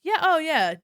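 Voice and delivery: high, loud sarcastic enthusiasm; mock eager agreement. Clerk mocking the grumbling customer, high and loud. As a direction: play it overeager to mock him. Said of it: "And I was like".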